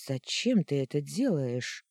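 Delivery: plain reading voice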